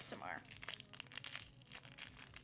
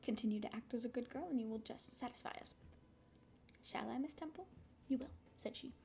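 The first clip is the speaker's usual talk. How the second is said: story reading; 2 semitones higher than usual. Acted. Reading novel aloud on stream.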